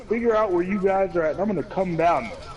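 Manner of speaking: retold firm scolding of someone's child; lightly voiced warning to a kid; stern talking-to. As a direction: imitate a measured, stern telling-off. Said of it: "stern talking to".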